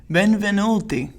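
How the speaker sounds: benvenuti sung out high and falling; showy host greeting. Shown as a demonstration. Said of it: "That intro was fire".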